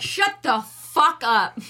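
slow, emphatic mock telling-off; exaggerated, punchy dismissal; mock outrage. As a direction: draw out every word as an indignant put-down. Voicing Maurice snapping at another.

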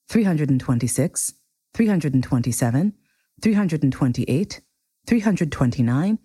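measured storybook reading, clearly phrased; story narration. A narrator's reading. Reader sharing a favorite chapter with listeners, story narration. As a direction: read it out like a classic tale. Reads The Little Prince aloud.

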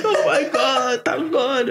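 high, slow, relieved cry; mom's relief. Retold or imitated. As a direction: thank God like a weight just lifted. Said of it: "she's just like".

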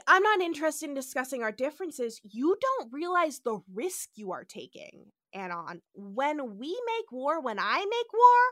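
lightly voiced swaggering captain; a hint of chest-puffing hero; hammed-up masculine captain; mock macho Kirk. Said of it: "Kirk has to be real masculine".

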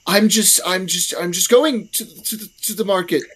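a nervous stranger backing away; wary, nervous. Acted. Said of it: "he's very wary".

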